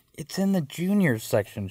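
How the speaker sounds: put-on sing-song voice used for a small child; talking to a child. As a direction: patiently explain as to a toddler. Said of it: "her talking to a child voice".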